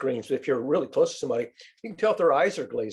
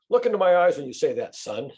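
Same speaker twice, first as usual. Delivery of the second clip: stern parent; 3 semitones higher, 3 dB louder than usual. Retold or imitated. Parent confronting lying son.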